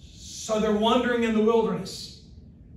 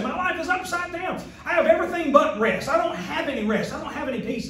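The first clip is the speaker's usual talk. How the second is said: anguished believer; 6 semitones higher than usual. Retold or imitated. Voicing troubled believers.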